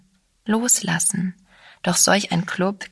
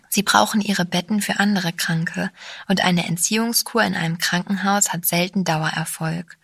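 ordinary delivery, nothing marked

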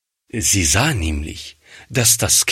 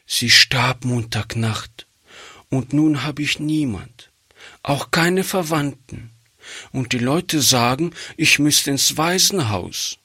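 put-on higher, quick little girl's voice; a small orphan girl asking earnestly for a favour; pleading child voice, pitched high and hurried; 7 semitones higher than usual.

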